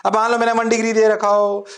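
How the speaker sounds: normal talking voice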